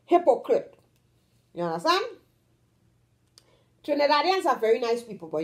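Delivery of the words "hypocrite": "Hypocrite" rising in the middle and falling at the end; up-and-down stress. Shown as a demonstration. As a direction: lift then drop the tune on "Hypocrite". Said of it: "You go up and you come down".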